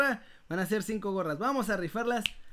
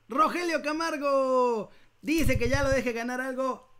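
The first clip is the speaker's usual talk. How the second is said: booming prize announcer; 5 semitones higher, 4 dB louder than usual. Acted. Anuncia ganador del sorteo.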